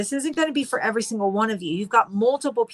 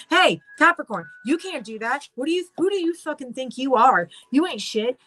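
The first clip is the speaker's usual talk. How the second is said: mock scolding, pitched higher; higher-pitched, hammed-up challenge; acted belittling naysayer; 5 semitones higher than usual. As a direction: play a scornful doubter putting someone down. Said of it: "people show up in your life and they go".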